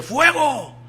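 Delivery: high barked order to fire; shouted command. Acted. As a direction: yell fuego like a captain. Captain orders the cannon fired.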